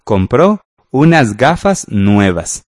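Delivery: slow and deliberate, each word laid out; teacher giving an example sentence to the class, slowly. Shown as a demonstration. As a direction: read the example slowly so students can follow. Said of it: "lo mismo podría decir con gafas".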